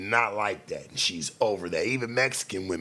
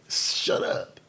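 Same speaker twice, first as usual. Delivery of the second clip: hissed shut up. Acted. Snapping at an imagined critic.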